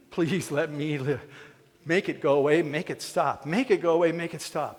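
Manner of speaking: a touch of frantic pleading; mock desperate begging. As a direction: beg for your life, half-acted. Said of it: "Olympic-level begging".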